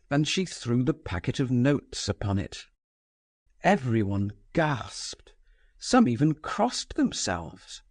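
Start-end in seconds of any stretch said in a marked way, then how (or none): none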